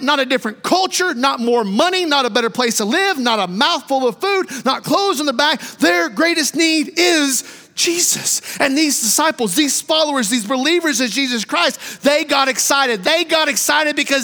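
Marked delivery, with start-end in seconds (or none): 5.8-8.4 slow, shouted, every word weighted; preached proclamation. Shown as a demonstration. Preacher to congregation, shouting it slowly. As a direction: proclaim it to the whole church slowly.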